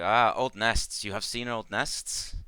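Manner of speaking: halting broken English, sinking into mild sadness; Ikmar remembering. Acted. Ikmar telling the party about old nests, mildly sad. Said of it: "she kinda, like, nods and goes".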